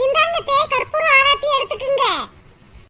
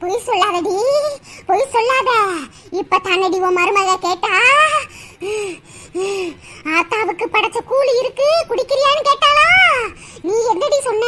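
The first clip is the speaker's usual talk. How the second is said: angry goddess; 2 semitones lower, 3 dB louder than usual. Acted. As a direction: berate her like a wrathful deity. Goddess berating mother-in-law.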